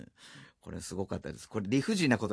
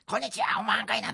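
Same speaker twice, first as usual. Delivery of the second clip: big voice; 11 semitones higher, faster than usual. Retold or imitated. Rehearsing rakugo again by the river. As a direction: project the rakugo opening. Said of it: "でっかい声で".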